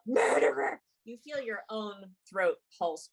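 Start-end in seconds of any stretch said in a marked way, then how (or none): 0.0-0.8 ghostly cry. Acted. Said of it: "the voice cries out".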